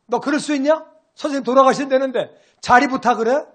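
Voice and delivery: a heated, accusing outburst, pitched high; angry disciples. Retold or imitated. Disciples scolding James and John, hot and accusing. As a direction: confront them as if they betrayed the teacher. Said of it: "막 화를 내는 거예요".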